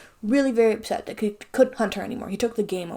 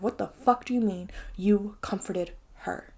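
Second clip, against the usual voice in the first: incredulous whisper; 5 dB quieter than usual. Real, not acted. Outraged hushed reaction.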